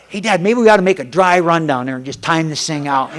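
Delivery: laughing retold son. Father retelling son's trick to the audience, laughing. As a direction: relay it through laughter. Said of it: "And then he say".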